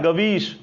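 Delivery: गवीश with "av" sounded inside, as ga-veesh; pronunciation demo. Shown as a demonstration. Teacher shows where av is heard, pronunciation demo. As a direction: model गवीश clearly as one word, ga-veesh. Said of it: "अव का यहां पर उच्चारण हो रहा है".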